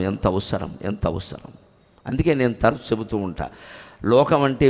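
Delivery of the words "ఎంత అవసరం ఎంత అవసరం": each repeat softer and lower until almost gone; fading repetition. Real, not acted. Speaker stressing the need to the audience, fading to a hush. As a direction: let the phrase die away.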